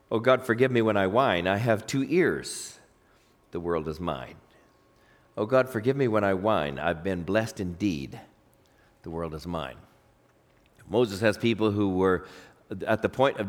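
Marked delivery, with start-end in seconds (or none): 0.1-9.8 low, soft, slowing recital; humble prayer, dropping to a hush; poem recitation. Acted. Poem's author confessing to God, low soft humble recital.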